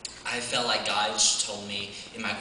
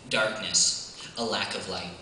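spoken-word poem, measured start building to higher, fervent delivery; poem recital; 4 semitones higher than usual. Acted. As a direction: recite rhythmically, leaning on the rhymes, lifting pitch and intensity as the battle builds. I'm just gonna share the poem.

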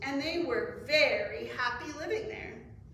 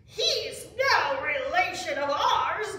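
slow, loud, higher frog denial; indignant declaration; 4 semitones higher, 8 dB louder than usual. A narrator's reading. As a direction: declare it firmly, stretching the words. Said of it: "declared the frogs".

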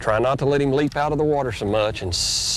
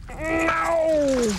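sharp high "No!" as the fish nearly escapes; sudden cry. Real, not acted. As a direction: yelp in real alarm, much higher. Fish about to get off.

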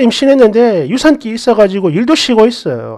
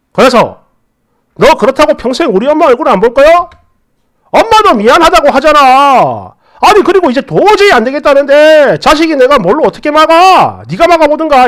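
angry husband; 3 semitones higher, 4 dB louder than usual. Retold or imitated. Husband angrily snaps back.

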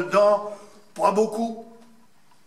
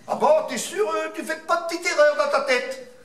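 teacher; 7 semitones higher than usual. Retold or imitated. Teacher questions a child.

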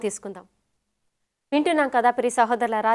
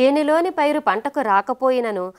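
scripture reading. Acted. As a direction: read the verse out formally, drawing out each clause. Reads a Bible verse aloud.

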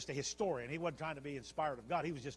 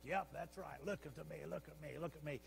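soft, self-admiring aside; Herod; 5 dB quieter than usual. Acted. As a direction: preen quietly for the crowd. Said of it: "old Herod's like".

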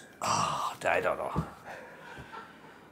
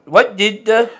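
hammed-up Aussie twang on yoga instructor; mock Australian accent; 3 semitones higher than usual. Friend reads joke to friend in a mock Australian accent. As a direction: play a bad Aussie reading a joke. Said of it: "It's Australian".

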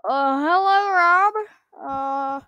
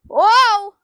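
surprised; 7 semitones higher, 11 dB louder than usual. Real, not acted. Caught off guard by train.

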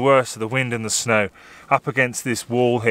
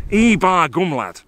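Yorkshire dialect exclamation; 3 semitones higher, slower than usual. Shown as a demonstration. Photographer teaching workshop guests local phrases, broad Yorkshire accent. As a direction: drawl it like a northern local in surprise. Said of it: "But here, you have to say".

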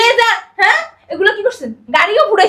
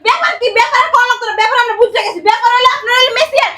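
angry outburst; 2 semitones higher than usual. Acted. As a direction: throw the excuse back at them indignantly. Furious rebuff of the excuse. (রাগে চেঁচিয়ে জবাব)

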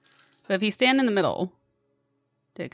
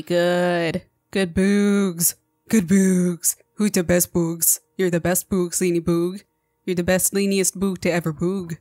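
pet praise voice. Acted. Praising monster like a pet dog.

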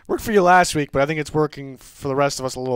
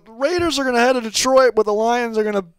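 half-successful Southern US accent, higher voice; 5 semitones higher than usual. Shown as a demonstration. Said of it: "say it in a southern accent".

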